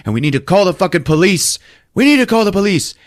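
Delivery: rising to a loud high shout; angry outburst. Retold or imitated. Husband refusing his wife, building to a loud angry shout. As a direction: build from firm to yelling.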